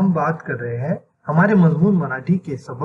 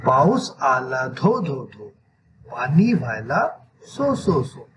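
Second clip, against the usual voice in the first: measured verse with evenly beaten repeats; poem recitation; 3 semitones lower than usual. Shown as a demonstration. Teacher reads the rain verse to children, measured recitation. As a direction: recite it slowly, spacing the repeated sounds. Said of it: "इस नज़म को कैसे पढ़ा जाता है".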